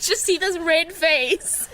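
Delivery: slow, laughing through tears; embarrassed tearful giggle; teary laugh. Real, not acted. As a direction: laugh it out while crying. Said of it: "you're making me cry".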